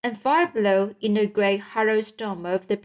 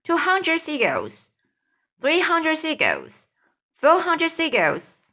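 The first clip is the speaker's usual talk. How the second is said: rising higher count; excited counting; 7 semitones higher than usual. A narrator's reading. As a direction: count them in triumph, building. Counting in triumph.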